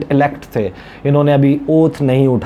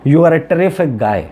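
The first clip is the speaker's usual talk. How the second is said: slightly raised, drawn-out compliment; lightly quoted Donald Trump; 4 semitones higher, much slower than usual. Retold or imitated. Journalist quoting Trump's compliment to Nawaz Sharif, lightly emphatic. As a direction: punch up the praise as a quote. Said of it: "Donald Trump जो हैं वो अब बात कर रहे हैं".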